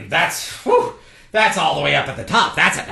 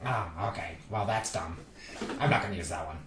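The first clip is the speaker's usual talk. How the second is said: soft, low and let down; deflated; 6 semitones lower, 12 dB quieter than usual. Acted. Gatekeeper learns the riddle's dumb answer, deflated. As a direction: sink into a quiet grumble.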